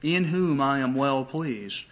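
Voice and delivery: slow, solemn voice of God from heaven. Acted. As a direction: proclaim it slowly, like a voice from heaven. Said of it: "a voice came out of heaven and said".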